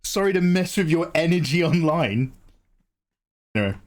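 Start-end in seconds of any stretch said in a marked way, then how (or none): 0.0-2.3 high-pitched mock rage, yelling fuck you; hammed-up outraged old actor ranting back at tweeters; mock furious stroke guy. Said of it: "And he's like".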